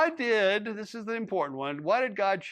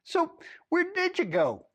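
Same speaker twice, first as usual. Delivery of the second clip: higher, slow fake curiosity; mock-polite questioning of a suspect; false interest; 12 semitones higher than usual. A narrator's reading. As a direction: ask as if you barely care, pretending to. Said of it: "he asked with false interest".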